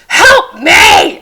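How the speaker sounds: loud frantic help me cry; imitated shout for help; mock scream. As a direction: belt it like a panicked wife. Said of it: "and I'd be screaming".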